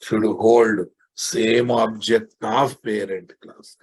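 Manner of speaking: word by word, slowly; slow dictation. Shown as a demonstration. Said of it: "slow dictation to students".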